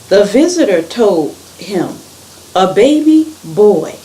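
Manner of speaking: animated storytelling, stressed words lifted; story read-aloud. A narrator's reading. Reader tells children of Abram and God's promise, animated storytelling.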